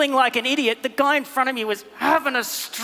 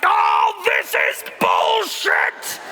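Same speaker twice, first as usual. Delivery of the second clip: fed-up outburst; much slower than usual. Acted. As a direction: let it burst out in disgust. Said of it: "the guy in front of me was like".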